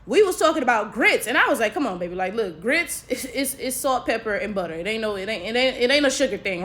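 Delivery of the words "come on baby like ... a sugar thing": low, soft, matter-of-fact schooling; quiet, patient correction; coaxing explanation. Acted. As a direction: gently set a friend straight, keeping it low. Retelling herself schooling friend on grits.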